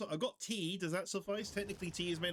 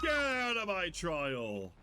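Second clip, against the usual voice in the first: loud, slow killer yell; hammed-up shout of a territorial killer; mock shout; 2 semitones higher, 4 dB louder, slower than usual. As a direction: bellow it like the angry killer.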